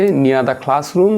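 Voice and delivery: drawn-out answer option; teacher reading options aloud; very slow reading. Acted. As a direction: read each option out slowly.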